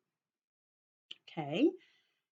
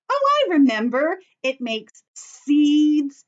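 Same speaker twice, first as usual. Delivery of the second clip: louder and higher, then drag out "It makes seeds" slowly; mock sudden remembering; 4 semitones higher, 5 dB louder than usual. Teacher playfully pretending to recall for children, mock aha. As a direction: act out the aha moment for the kids, stretching the answer.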